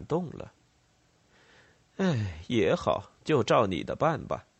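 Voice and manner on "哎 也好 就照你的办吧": resigned consent. Acted. Rebel chief relents with a sigh.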